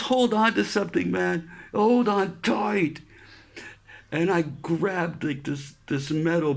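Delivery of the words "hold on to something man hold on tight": higher, firm mock instruction; corpsman's warning. Corpsman telling the sailor to hold on, firm. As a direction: brace him before the pull. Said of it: "he goes".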